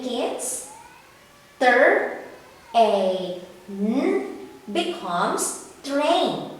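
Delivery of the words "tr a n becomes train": slow sounding out, then "train" said whole; blending sounds. Shown as a demonstration. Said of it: "Read it with me, kids".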